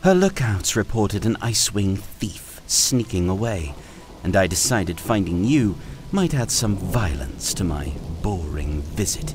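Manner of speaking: high, mocking queenly voice; sneering dragon queen. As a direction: gloat over the captured thief. Byrne taunting the thief.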